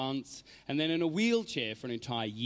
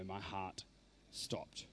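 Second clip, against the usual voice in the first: hushed whisper; 6 semitones lower, 14 dB quieter, much slower than usual. Real, not acted. Dramatic pause before stopped.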